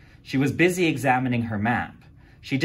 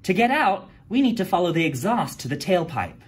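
high, eager explaining voice; girl reading from her research book; know-it-all girl; 7 semitones higher, 4 dB louder than usual. A narrator's reading. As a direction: read it out like the class expert. D A explains to the class.

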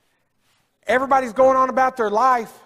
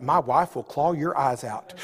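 laughing joke; 7 semitones lower, 4 dB quieter than usual. Retold or imitated. Joking comeback to the doctor.

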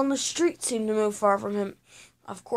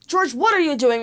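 raised, a touch higher teacher scold; teacher scolding the boy in class, mildly raised; 5 semitones higher, 3 dB louder than usual. Acted. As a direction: stop him mid-act with a firm scold. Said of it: "Missus Kelly scouted".

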